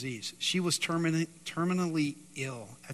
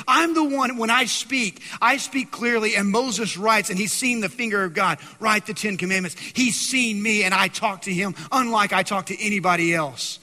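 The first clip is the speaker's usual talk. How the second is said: God speaking; 7 semitones higher, 10 dB louder than usual. Acted. Preacher voicing God about Moses.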